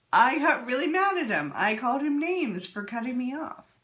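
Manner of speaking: quoting out loud. Retold or imitated. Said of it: "saying out loud".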